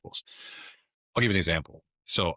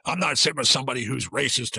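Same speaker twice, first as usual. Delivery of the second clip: indignant refusal; 5 semitones higher than usual. Retold or imitated. Angry woman refuses to sit.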